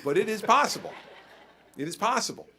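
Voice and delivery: laughing through the words, high and loud; amused laugh on possible. Real, not acted. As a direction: chuckle it out. Laughing at own joke.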